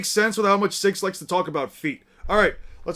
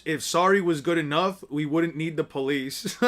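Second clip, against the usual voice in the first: lower, measured recital; understated, pointed quotation; quoting back; 3 semitones lower than usual. Acted. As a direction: recite someone's words back at them dryly. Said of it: "And I quote".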